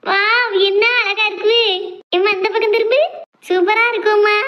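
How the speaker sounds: high, sing-song gushing; delighted admiration. Acted. Daughter admires earrings on mother.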